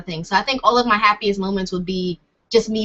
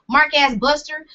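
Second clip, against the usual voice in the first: slightly raised Cali slang accent; 5 semitones higher than usual. Shown as a demonstration. Showing off a favourite accent, Cali accent. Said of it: "I do a Cali accent too".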